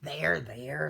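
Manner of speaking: low, soothing wolf voice; comforting. A narrator's reading. Wolf comforts the crying duckling.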